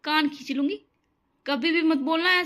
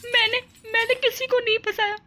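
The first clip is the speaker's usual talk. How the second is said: higher, urgent protest; upset pleading; 6 semitones higher than usual. Acted. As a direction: defend yourself near tears. Bride defending herself tearfully.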